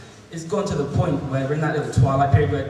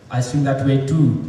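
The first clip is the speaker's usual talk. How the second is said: slow, loud mock Bangladeshi accent; lightly put-on Bangladeshi accent, slow; 5 dB louder, slower than usual. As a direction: imitate a Bangladeshi man, drawn out. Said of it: "before I do the accent".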